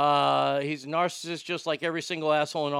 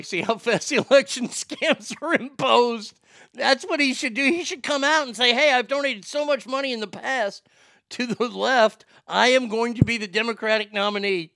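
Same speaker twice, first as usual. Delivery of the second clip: excited mock; 6 semitones higher, 5 dB louder than usual. Real, not acted. Mocking Trump joining Democrats.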